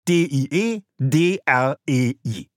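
"D I E D R E I" buchstabiert, jeder Buchstabe einzeln und langsam; spelled out letter by letter. Shown as a demonstration. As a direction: den Code "D I E D R E I" langsam Buchstabe für Buchstabe diktieren. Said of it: "Alles zusammengeschrieben". (langsam buchstabiert: "D I E D R E I")

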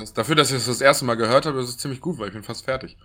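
chewing between words; mouth full. Real, not acted. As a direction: talk round a bite of duck. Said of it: "ich esse ja nebenbei".

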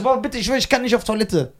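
put-on frightened kid begging dad to come along; pleading child. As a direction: whine like a scared child. Scared child begging father.

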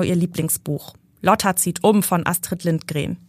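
even, measured reading of a novel; story narration. A narrator's reading. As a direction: read the passage to the listeners. Author reads her novel aloud.

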